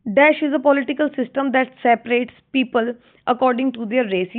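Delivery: unhurried read of the exam question; slow, careful classroom reading. Shown as a demonstration. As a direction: read it out so students can follow. Reads exam question aloud.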